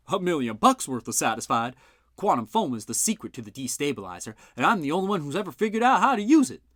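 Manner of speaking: an inventor bragging to a skeptic; boastful gruff uncle. A narrator's reading. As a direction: crow about your genius. Bud boasts.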